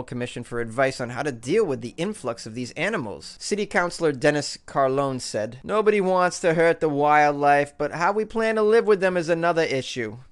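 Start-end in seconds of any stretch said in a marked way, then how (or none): 5.6-10.2 put-on a light Boston accent, a bit louder; mock the quote in a mild Boston accent. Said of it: "that's my Boston accent".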